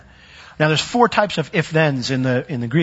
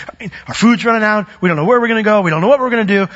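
fed-up complaint; 6 semitones higher, 4 dB louder, faster than usual. Acted. Peter voiced, fed up with waiting.

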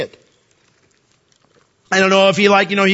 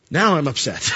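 amused mock upset. God says, laughing.

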